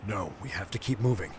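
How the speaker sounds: low, firm male voice pressing on; deep urging voice. Shown as a demonstration. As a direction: urge her to keep going, low. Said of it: "There we go, like that take".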